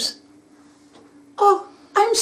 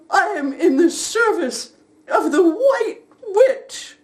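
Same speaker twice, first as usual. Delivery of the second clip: tearful; 3 semitones higher than usual. Acted. Sobbing confession.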